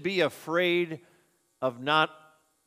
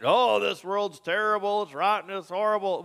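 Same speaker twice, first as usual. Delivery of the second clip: louder, higher mock complaint; mock bemoaning; 4 semitones higher, 5 dB louder than usual. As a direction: whine as if bemoaning the world. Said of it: "We bemoan the fact".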